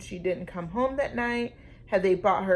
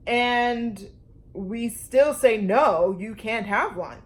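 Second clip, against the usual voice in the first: dad insisting; 3 semitones higher, 6 dB louder, slower than usual. A narrator's reading. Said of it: "said her dad".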